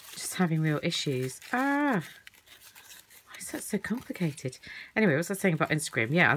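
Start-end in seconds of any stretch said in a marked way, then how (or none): 1.5-4.6 breathy whispered grumble, slowed right down; frustrated whisper. Real, not acted. Crafter struggling to open a parcel, frustrated whisper. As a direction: mutter it to yourself, fed up with the tape. Fiddling with stubborn parcel tape.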